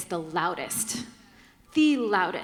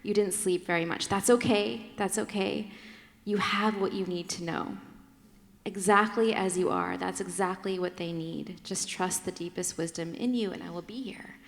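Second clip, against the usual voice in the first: tender wise woman; 3 semitones lower than usual. Retold or imitated. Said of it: "A wise woman says".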